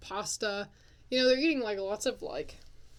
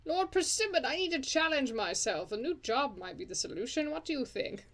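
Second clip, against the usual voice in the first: voicing a Sim; 4 semitones higher than usual. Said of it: "That's not how she talks".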